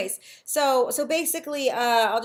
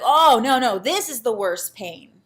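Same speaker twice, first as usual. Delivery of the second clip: mock anguished cry; 10 dB louder than usual. Her younger self in fresh pain.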